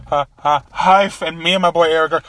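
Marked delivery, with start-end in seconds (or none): 0.1-1.1 stifled giggles. Retold or imitated. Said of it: "trying not to laugh".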